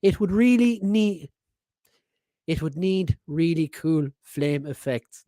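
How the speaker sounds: slow, deliberate second go at the line; careful retry. Real, not acted. Host retrying the listener's message, slow and careful. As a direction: carefully spell it out word by word. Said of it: "tongue twister".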